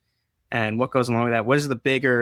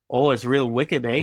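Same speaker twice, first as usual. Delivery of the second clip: mock Canadian accent on wicked, with an eh; a playful Canadian twang; 3 dB louder than usual. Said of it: "I heard wicked in a very Canadian accent".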